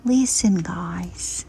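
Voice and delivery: excited whisper. Real, not acted. Owner whispering excitedly over the kittens. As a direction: hush as if sharing a secret.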